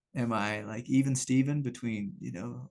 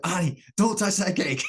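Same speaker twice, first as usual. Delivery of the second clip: higher and louder through a laugh; dad laughing as he warns his daughter off the cake; laughing dad warning; 6 semitones higher, 6 dB louder than usual. Retold or imitated. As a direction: scold her while cracking up. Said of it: "I'm like".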